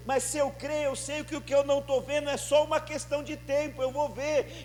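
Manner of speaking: rising fervent declaration; preaching climax. Acted. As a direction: lift it into the sermon's triumphant end.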